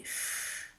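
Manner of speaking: "chut" as a long voiceless shhh; drawn-out sound. Shown as a demonstration. Teacher letting a child hear the sound sing, drawn-out shhh. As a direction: hold only the hushing consonant of "chut". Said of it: "si tu l'entends chanter".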